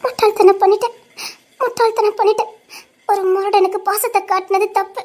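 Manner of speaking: regretful soliloquy on the edge of crying; frightened, tearful lament. Acted. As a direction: worry aloud to yourself, fighting tears. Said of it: "எனக்கு பயமா இருக்கு".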